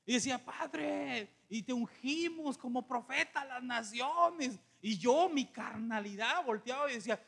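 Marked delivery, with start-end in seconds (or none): 0.4-4.6 slow, drawn-out mock anointing prayer; slightly raised mock prayer voice; imitating praying pastor. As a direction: draw it out like a prophesying preacher. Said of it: "oraba por los siguientes".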